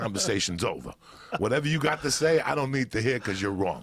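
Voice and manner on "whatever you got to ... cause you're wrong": loud dismissive yell; mock yell. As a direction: yell it and walk away. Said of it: "where I'd yell and then walk away".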